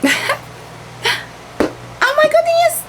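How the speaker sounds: a high, slow laugh spilling into the words. Real, not acted. Vlogger laughing at her messy hair while filming, laughing. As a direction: laugh it out at yourself.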